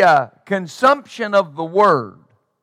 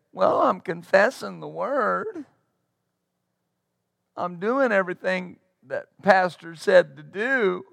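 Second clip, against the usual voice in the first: quiet, whining excuse; mock a limp, whiny believer; a touch of self-pity in a soft whine; 6 dB quieter than usual. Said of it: "there's still that whine".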